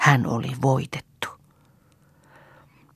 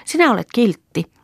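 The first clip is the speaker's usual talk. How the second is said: lightly voiced little girl; 10 semitones higher, 4 dB louder than usual. A narrator's reading. Little girl Lea talks.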